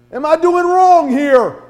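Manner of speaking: high, slow, incredulous; slow pleading disbelief. Acted. Preacher imagining asking God, high and slow in disbelief. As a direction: beg for an answer.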